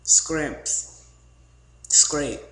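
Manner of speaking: exaggerated Southern drawl on each word; mock Southern accent; Southern slang words. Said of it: "the things they say is".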